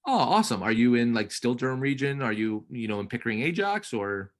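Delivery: bright, friendly sales chat; upbeat realtor on call. Acted. Coach playing realtor to trainee's lead, upbeat. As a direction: keep the lead talking warmly.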